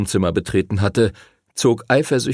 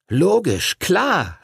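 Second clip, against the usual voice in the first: higher-pitched cry of realisation; calling out; 9 semitones higher, much slower than usual. A narrator's reading. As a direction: exclaim as it dawns on you. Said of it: "rief Arthur".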